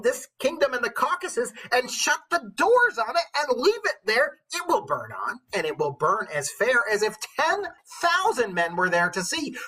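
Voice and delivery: theatrical witch voice reading poetry. Acted. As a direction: declaim each line like an old witch. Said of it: "go back into my witch voice".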